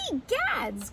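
a lightly acted startled exclamation; Mama Bear. Mama Bear discovers her bed used, high startled cry. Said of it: "cried Mama Bear".

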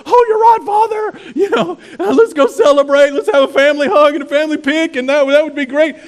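mock cheery change of heart; older son, brightly agreeing; hammed-up happy son. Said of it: "the older son just goes".

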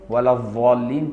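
الضالين with a pure ظ instead of ض; pure dha. Shown as a demonstration. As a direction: make الضالين a clean ظ. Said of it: "لو قراها ضاء صافية".

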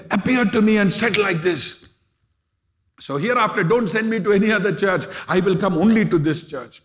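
insist, pressing each phrase; emphatic insistence. Retold or imitated.

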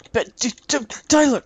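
shouting a friend's name loudly; yelling across the room. Real, not acted. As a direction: call out loud to a far-off friend. Calling teammate across the map.

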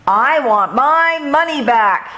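a high, furious demand; yelling. A narrator's reading. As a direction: mole yells at the shopkeeper for his money. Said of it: "he yelled".

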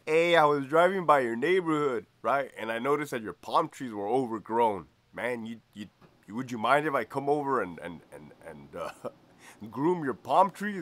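Greñas voice. Retold or imitated. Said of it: "it says".

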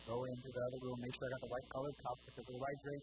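a tired, quick sigh of a reply; weary dad. Retold or imitated. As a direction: lightly sound like a worn-out dad fetching a drink. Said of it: "I'm like".

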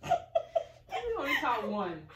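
laughing tease. Real, not acted. Teasing after game.

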